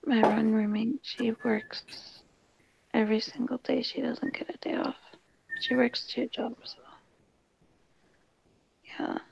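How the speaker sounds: whispering so roommates can sleep; hushed late-night whisper; quiet at night. Real, not acted. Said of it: "I'm talking quiet because my roommates are asleep".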